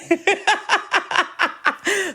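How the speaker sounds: high rippling laugh. Real, not acted. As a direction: burst into a long, high laugh. Laughing at her own bad day.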